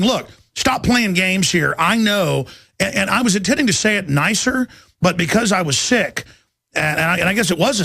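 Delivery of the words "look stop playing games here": firm, slow and deliberate; a slow, stern retold warning. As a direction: lay down the law slowly. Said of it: "I was there just saying".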